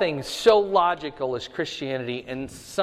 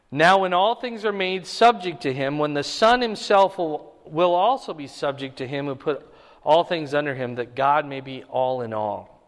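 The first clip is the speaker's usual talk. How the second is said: louder, raised preaching read of the passage; scripture reading; 4 dB louder than usual. Acted. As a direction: proclaim the verses to the congregation. Reads scripture aloud in sermon.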